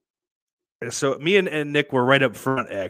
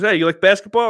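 mock excited comic; 11 semitones higher, 11 dB louder, faster than usual. Retold comic asks about basketball.

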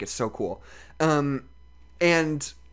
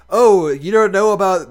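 bad English accent; 4 semitones higher, 8 dB louder than usual. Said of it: "this is how she talks".

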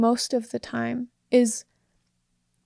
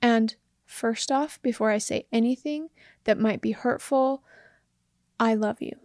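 gentle opener; 2 semitones lower than usual. Shown as a demonstration. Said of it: "Prefacing it like this".

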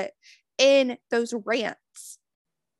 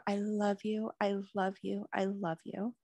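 much softer, fading almost to a murmur; soft repeated affirmation; 9 dB quieter than usual. Real, not acted. Host repeating love to her listeners, very softly.

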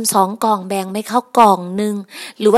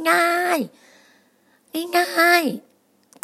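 drawn-out; 8 semitones higher, much slower than usual. Real, not acted. Drawing out how easy they want it.

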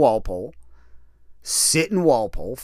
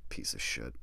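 whispered insult; 15 dB quieter than usual. Real, not acted. Recalling kicking the cellmate, whispered contempt. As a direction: whisper it, much lower and softer. Muttered insult after the kick.

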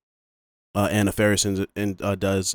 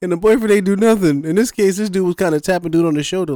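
laughing while talking; 9 semitones higher, 5 dB louder than usual. Real, not acted. Laughing while describing scene.

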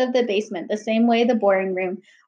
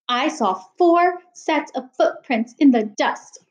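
huffy; 4 semitones higher, slower than usual. Acted. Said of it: "Miss Morales huffed".

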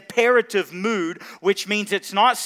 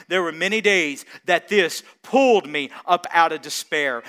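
ordinary talk, nothing marked

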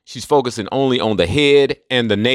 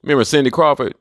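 normal talking voice

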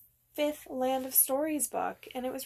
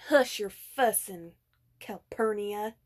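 put-on Southern accent; 5 dB louder than usual. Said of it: "We were both doing our southern accents".

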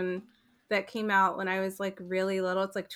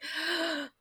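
high gasp, as if bawling; imitated sobbing gasp; 8 semitones higher, 3 dB quieter than usual. Retelling bawling at the cartoon ending, mock sobbing gasp. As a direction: act out a sharp sobbing breath. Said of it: "I was, like, bawling".

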